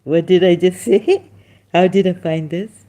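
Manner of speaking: mock amazed self-quote with a laugh; retold disbelief. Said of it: "now I'm like".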